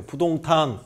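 slow, syllable by syllable; sounding out words. Shown as a demonstration. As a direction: spell out each syllable slowly. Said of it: "한 번만 따라해 보세요".

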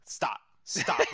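squeaky quoted stop; imitating Randy Couture. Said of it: "Randy Couture said".

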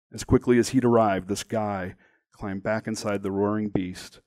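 measured, dramatic memoir reading; deliberate narration with weight on key words; story narration. A narrator's reading. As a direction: read your story aloud, phrase by phrase. Reads own story aloud.

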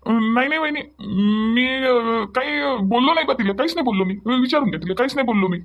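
sheepish denial. Acted. Husband denies before scolding neighbour.

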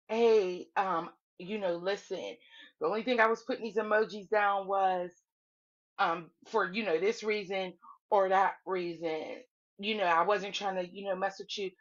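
low, hesitant, easygoing explanation; retold gentle placating. Omar explaining his emojis to her, mildly placating.

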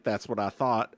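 smug dismissal. Retold or imitated. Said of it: "I was like".

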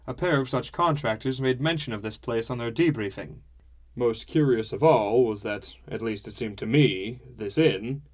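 a hint of a hearty, talkative father; father's voice, mildly put on; lightly voiced father.

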